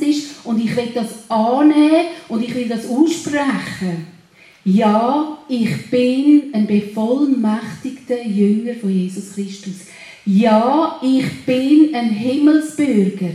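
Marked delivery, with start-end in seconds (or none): 4.6-13.3 loud, emphatic proclamation of faith; firm, louder confession of identity; louder declaration. Real, not acted. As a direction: proclaim it boldly, voice rising in volume. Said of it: "Meine Stimme wird automatisch lauter".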